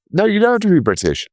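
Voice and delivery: high, fast, breezy chatbot reply; Grok imitation. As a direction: toss off the answer high and quick like a know-it-all bot. And Grok goes.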